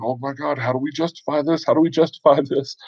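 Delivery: high, hushed fretting that breaks into a laugh; mock panic. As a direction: imitate players scrambling for an excuse. Players fretting out of character.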